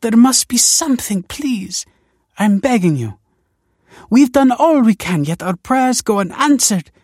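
high, loud, desperate begging; sobbing plea. A narrator's reading. Desperate wife begging Kelsey for a baby, sobbing. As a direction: plead at a high pitch, as if sobbing. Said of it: "she sobbed".

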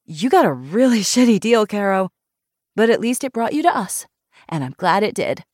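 high, loud and emphatic, easing at the end; frank, outspoken friend. Acted. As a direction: plunge right in with blunt sympathy.

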